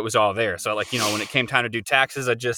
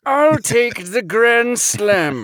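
put-on slow, high, wobbly old man voice; 11 semitones higher, 4 dB louder, much slower than usual. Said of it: "Let's hear your old man voice".

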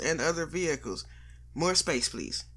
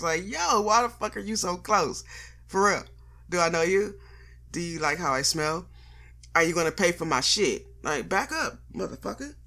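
mock confrontation; 3 semitones higher than usual. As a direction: tell the close-talker to back off. Ranting at close strangers.

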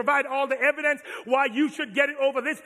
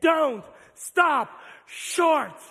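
call to repeat; 3 semitones higher, much slower than usual. Real, not acted. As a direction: lead the crowd in the chant. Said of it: "Somebody say it with me".

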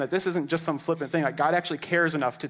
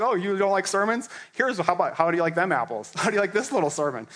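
higher, cheeky challenge; taunting; 4 semitones higher than usual. Acted. Peter teasing the council, cheeky and higher. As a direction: throw it back at them playfully.

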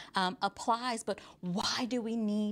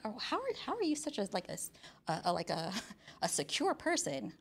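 puzzled congregation; 4 dB quieter, faster than usual. Retold or imitated. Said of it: "y'all are like".

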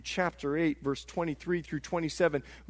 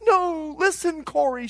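eager insistence; 9 semitones higher, 4 dB louder than usual. Retold or imitated. Betsy eagerly persuading her sister.

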